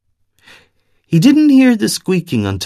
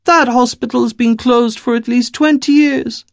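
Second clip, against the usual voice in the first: put-on much higher, scornful Eastern European accent; suspicious Eastern European woman; 12 semitones higher than usual. Distrustful woman calling out the stranger's lie, Eastern European accent. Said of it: "thick Eastern European accent in her voice".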